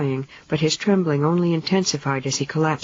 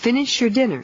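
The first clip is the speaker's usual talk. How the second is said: shouting; 8 semitones higher than usual. A narrator's reading. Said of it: "she shouted to the kids".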